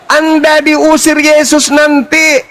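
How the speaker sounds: slow, emphatic debate yell; insistent yelling. Real, not acted. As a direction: drive the warning home forcefully. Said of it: "secara tidak sadar dia teriak itu".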